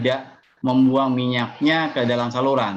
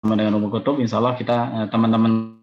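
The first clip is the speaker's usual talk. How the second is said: choppy audio cutting in and out; radio breaking up. Real, not acted. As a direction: voice dropping out on a bad call. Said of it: "Suaranya putus-putus ya".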